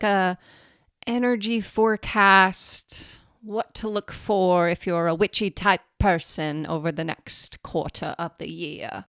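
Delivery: put-on a loose, half-British accent on a forecast; vague British accent. Host riffs an energy forecast in a vague British accent. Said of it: "And she's British, maybe?".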